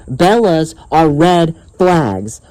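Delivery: slow, deliberate statement; emphatic slogan. Real, not acted. Vlogger reminding viewers of his warning, slow and emphatic. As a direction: say "Bellas are red flags" slowly and firmly.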